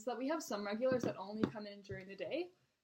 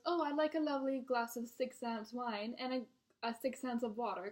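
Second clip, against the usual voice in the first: put-on British accent; 3 semitones higher than usual. Server imitates regular ordering wine, mock British accent. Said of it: "he has a British accent, so I'm gonna do my best impression".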